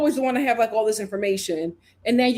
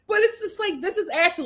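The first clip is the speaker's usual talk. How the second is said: laughing; 7 semitones higher than usual. Real, not acted. Laughing while recapping scene.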